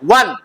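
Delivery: short, single-beat वन; correct pronunciation. Shown as a demonstration. Teacher gives right reading of won, short-vowel वन. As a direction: say वन just like "one". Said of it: "W O N".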